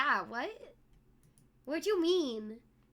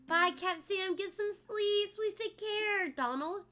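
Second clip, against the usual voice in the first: Donald impression; 2 semitones higher than usual. Donald Duck voice greeting chatters on stream. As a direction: quack the greetings like a cartoon duck. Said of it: "That's my Donald".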